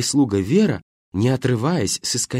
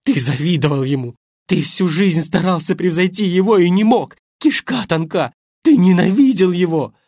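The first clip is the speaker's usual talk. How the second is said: higher, louder, building fury; growing rage; 7 semitones higher, 7 dB louder than usual. Acted. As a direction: whip yourself up into rage. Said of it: "распаляясь".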